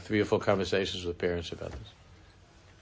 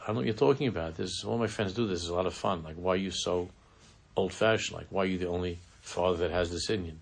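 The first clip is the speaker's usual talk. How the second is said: daughter's retort; 3 semitones lower, faster than usual. Retold or imitated. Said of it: "And your daughter says".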